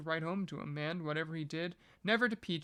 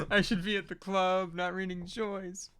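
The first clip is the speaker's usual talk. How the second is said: laughing; 3 semitones higher, 4 dB louder than usual. Real, not acted. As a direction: laugh the words out at your own joke. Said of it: "Yeah, you should be listening to house music".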